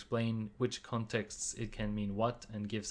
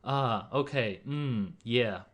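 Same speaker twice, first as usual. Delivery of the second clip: agreeing ah okay; 4 dB louder, slower than usual. Shown as a demonstration. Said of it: "In English, that would sort of be like".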